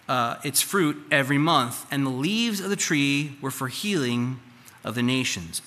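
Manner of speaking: loud, ringing Bible reading; scripture reading. Acted. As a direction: proclaim the verse to the hall. Reads Scripture aloud at volume.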